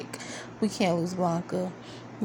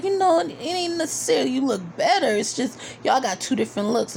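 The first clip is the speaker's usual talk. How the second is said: Poppy voiced; 5 semitones higher than usual. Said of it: "he was just like".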